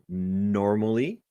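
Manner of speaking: normally stretched out for emphasis; echoed emphasis on normally. Retold or imitated. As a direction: draw out normally, echoing the emphasis. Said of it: "I like your emphasis on the word".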